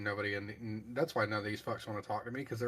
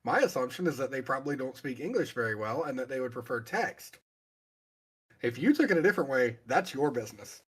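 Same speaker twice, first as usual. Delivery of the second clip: emphatic, louder self-defense; defensive; 5 dB louder than usual. Real, not acted. Streamer denying any racism about foreign pilots, defensive. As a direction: protest your innocence, punching key words louder.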